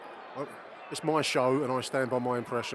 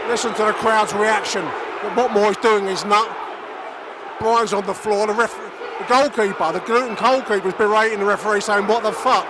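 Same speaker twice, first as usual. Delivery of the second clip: loud, higher commentary, furious at the referee; outraged play-by-play; 7 semitones higher, 8 dB louder than usual. Real, not acted. Fan commentator fuming to listeners about poor refereeing, loud and outraged. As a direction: rage at the ref while calling the game.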